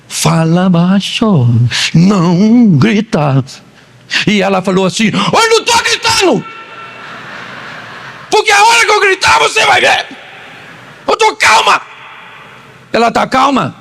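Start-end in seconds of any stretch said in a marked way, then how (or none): 0.1-3.4 slow, low, drawn-out shushing; mock-patient husband telling his wife to hush; imitated husband hushing. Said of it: "você falou assim pra ela". 5.1-11.8 very high, squawking mock yell; hammed-up angry wife protesting in a high voice; imitating nervous wife. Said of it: "ficou nervosa e começou a falar alto".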